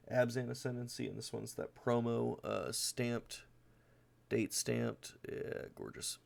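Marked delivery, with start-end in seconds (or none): 5.3-6.2 hushed, breathy admiration; whispered awe. Real, not acted. Admiring the date-stamped foil, whispering in awe.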